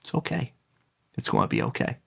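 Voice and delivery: hushed, soft shushing, barely voiced; gentle hushing. Verso hushing Maelle as she dies, soft whisper. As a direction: soothe her quietly as she dies. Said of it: "and he goes".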